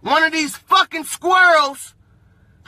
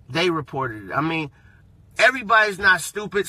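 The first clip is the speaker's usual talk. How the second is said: ordinary talk, nothing marked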